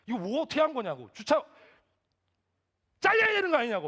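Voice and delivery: loud, high-pitched angry scolding; angry outburst. Retold or imitated. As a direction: blow up at parking staff, voice climbing to a yell. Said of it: "화를 내기 시작했어요". (버럭 화를 내며 따지는 말투)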